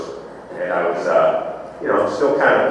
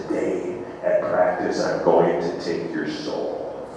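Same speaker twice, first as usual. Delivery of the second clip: low, slow menacing promise; intense threat; 4 semitones lower, 8 dB quieter, slower than usual. Retold or imitated. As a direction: lower and slower, make it sound dangerous. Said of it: "He looks at me all intense".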